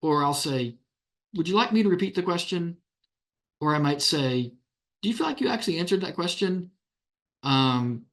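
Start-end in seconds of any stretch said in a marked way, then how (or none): 1.3-2.8 patronizing. Shown as a demonstration. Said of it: "I'll be a little patronizing". 5.0-6.7 higher, quick and condescending; mock-polite jab at a parent dodging the question; patronizing. Shown as a demonstration. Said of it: "kind of a little somewhat patronizing".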